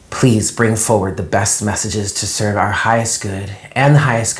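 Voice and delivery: calm invocation to Spirit; steady reverent prayer voice. Real, not acted. Invocation before tarot reading.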